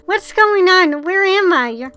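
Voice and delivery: put-on a frightened girl calling into the dark; scared girl crying out in the dark; terrified girl. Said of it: "She sounds terrified".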